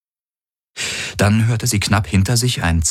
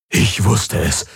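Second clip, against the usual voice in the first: joyful exclaim; 3 semitones higher, slower than usual. Acted. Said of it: "rief Hawks aus".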